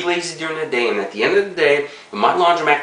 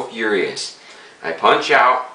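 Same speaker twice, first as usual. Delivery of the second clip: talking around pipe stem; pipe in mouth; slower than usual. Real, not acted. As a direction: lips clamped on pipe. Seen 3: Pipe stem between lips until 2.6; lowered before "And.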